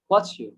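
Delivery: "what's you" as one word, wotchu; fuse "what's you" with a ch sound; blended pronunciation. Shown as a demonstration. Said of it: "are you-টাকে আমি কি বলেছি". ("what's you"-কে একসাথে ওয়াচ্চু)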